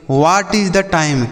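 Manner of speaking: each English word said slowly for the class; slow model sentence. Shown as a demonstration. Teacher to children, modelling an English sentence slowly. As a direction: spell it out slowly for learners. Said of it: "जैसे".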